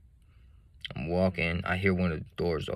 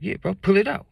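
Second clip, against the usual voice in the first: put-on drunk friend; 12 semitones higher, 5 dB louder than usual. Friend voiced high.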